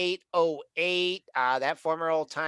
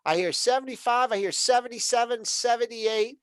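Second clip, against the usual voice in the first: auctioneer; 7 semitones higher than usual. Pretend. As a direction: rattle off bids like an auctioneer. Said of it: "I feel like an auctioneer".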